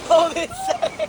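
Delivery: high squeaky voice. Pretend. After laugh, high voice.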